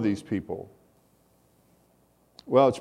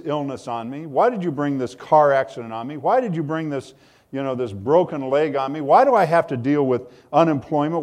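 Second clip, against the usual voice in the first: rising, pleading complaint that builds; mock plea to God, growing higher and louder; complaining to God; 3 semitones higher, 4 dB louder than usual. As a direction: question God like a wronged victim. Congregants' complaint voiced to God.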